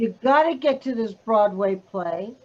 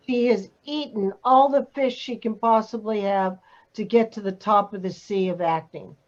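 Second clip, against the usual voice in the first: ordinary talk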